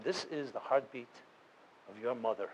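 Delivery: gently imitating a calm guide; lightly soothing, slowed retelling. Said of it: "he's speaking in this very soothing voice".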